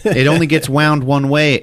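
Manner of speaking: high, loud, laughing explanation; laughing through it. Retold or imitated. Amara explaining the wiring, laughing loudly and high. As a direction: tell the robot detail while cracking up.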